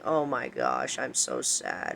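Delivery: imitating a gloomy singer in a low, hushed near-whisper; depressed soul whispering in the dark. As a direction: murmur it very softly and low, sunk in mock misery. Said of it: "just whispering, saying".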